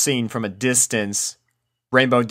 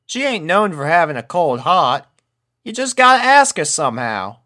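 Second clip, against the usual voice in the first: Applejack voice; 6 semitones higher, 4 dB louder than usual. A narrator's reading. Applejack encouraging.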